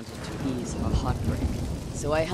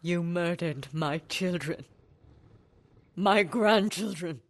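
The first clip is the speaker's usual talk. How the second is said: higher, louder, slow grief; anguished anger; 4 semitones higher, 6 dB louder than usual. Acted. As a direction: pour grief into each word. Confronting her family's murderer.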